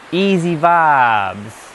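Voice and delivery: very slow, dreamy breezy voice; lightly drawn-out, mellow; laid-back woman. Retold or imitated. Mocking the feminine woman, slow and dreamy. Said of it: "the feminine woman who's like".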